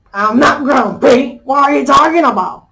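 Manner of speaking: rising into a mock grumpy shout. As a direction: snap back, refusing to admit it. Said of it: "the monkey was like".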